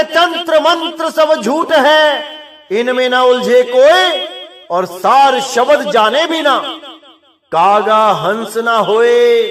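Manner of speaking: slow, drawn-out scripture couplet; verse recitation. Acted. Preacher quoting Sahib's verse to his brothers, slow recitation. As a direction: recite the verse with long-held line endings.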